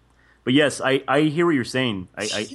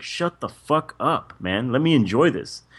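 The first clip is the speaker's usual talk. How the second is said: high, exasperated imagined retort; fed-up viewer talking back, slightly hammed-up; exasperated mock telling-off; 4 semitones higher, 4 dB louder, slower than usual. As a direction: tell off the commentators in mock annoyance. Mock-scolding the nagging commentators.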